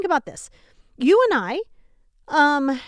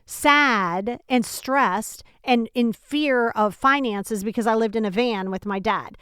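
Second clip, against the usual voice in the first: slow, drawn-out lament; slower than usual. Retold or imitated. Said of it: "It would be like me saying".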